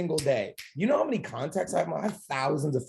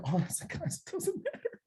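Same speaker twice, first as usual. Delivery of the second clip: laughing; 10 dB quieter than usual. Real, not acted. Laughing at own point.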